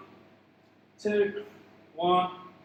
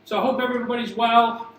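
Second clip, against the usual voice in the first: talking while jogging; slightly out of breath from jogging; while running. Real, not acted. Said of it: "I'll talk while I jog".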